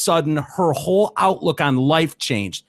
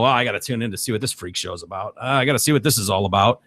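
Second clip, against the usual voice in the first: curious viewer; 4 semitones lower, faster than usual. Acted. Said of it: "you're gonna go".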